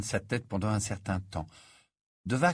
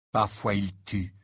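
slow, sober statement; grave. Acted. Ron explains werewolves to Harry, slow and grave. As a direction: say it slowly and with gravity. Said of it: "avec une gravité inhabituelle".

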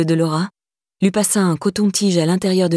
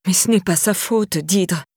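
whiny; slower than usual. Acted. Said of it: "d'une voix geignarde".

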